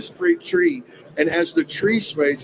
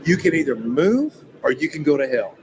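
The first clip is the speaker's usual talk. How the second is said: rebuking the devil. Retold or imitated. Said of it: "And I'm talking in this voice".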